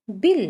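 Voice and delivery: बिल said loud and clipped after spelling; teacher sounding the whole word; crisp blended word. Shown as a demonstration. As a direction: snap the blended word out for a class. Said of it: "छोटी ई की मात्रा की sound sharp आ रही है".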